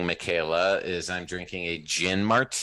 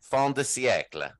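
Italian-accented French phrase; 3 semitones higher than usual. Shown as a demonstration. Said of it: "I said it with an Italian accent".

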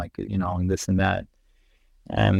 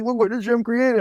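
awed excitement; 13 semitones higher than usual. Retold or imitated. Retelling awe at desktop landscape photo.

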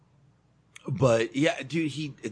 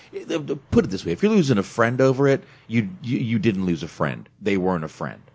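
heated, raised voice; 7 dB louder than usual. Real, not acted. Ranting to the co-host about friends lost over politics, raised voice. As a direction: get fired up and press the argument.

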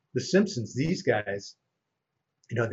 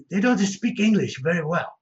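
mock casting guy; 7 semitones higher, 5 dB louder than usual. Casting guy quoted, mock accent.

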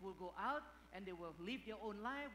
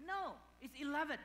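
put-on stubborn kid voice; 6 semitones higher, 4 dB louder than usual. Son arguing with father.

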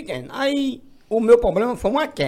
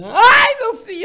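crying mother; 7 dB louder, slower than usual. Retold or imitated.

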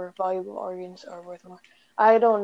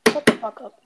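snapped out loud and harsh; angry; 3 semitones higher, 8 dB louder than usual. Real, not acted. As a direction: tell him off, loud. Friend taunting after loss.

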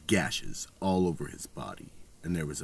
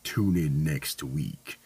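horror host; 6 dB louder than usual. Acted. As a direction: sign off like a creepy horror host.

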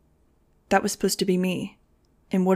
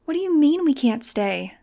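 alarmed, near tears; 7 semitones higher than usual. A narrator's reading. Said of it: "eyes round with alarm and already brimming".

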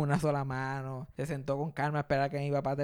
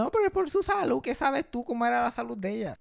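mock know-it-all; 7 semitones higher than usual. Mocking people's excuse.

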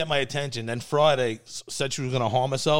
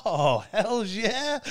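retold relish; 6 semitones higher, much slower than usual. Retold delight at marriage-for-money offer.

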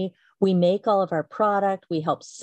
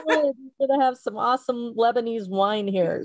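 higher, amused retold comeback; laughing retort; 4 semitones higher than usual. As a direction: say it through a laugh. Laughing retort to snooty restaurant staff.

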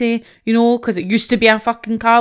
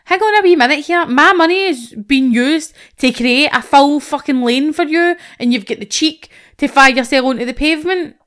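higher, louder outraged thought; indignant inner rant; 5 semitones higher, 4 dB louder than usual. Retold or imitated. Driver retelling what he thought of the cyclist, outraged. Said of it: "and I thought".

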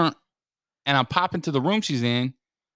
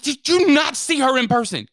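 higher pitched amused rant; mild worked-up rant; 11 semitones higher, 4 dB louder than usual. Retold or imitated. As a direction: rattle it off, half laughing. Ranting to brother.

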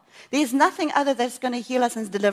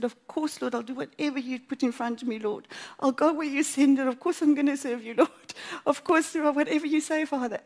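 crying prayer; 3 semitones higher than usual. Retold or imitated. Praying to the Father through tears, then joy breaking in. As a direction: promise it through tears and a laugh. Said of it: "the joy came. I started to laugh".

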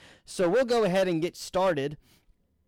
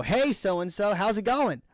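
higher, breezy phone hello; retold cheery greeting; 5 semitones higher than usual. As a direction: greet an acquaintance casually on the phone.

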